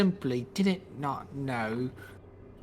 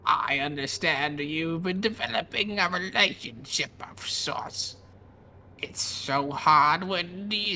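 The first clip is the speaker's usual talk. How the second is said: lightly voiced haughty vampire; a touch of cold vampire menace. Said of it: "Show us your best vampire voice".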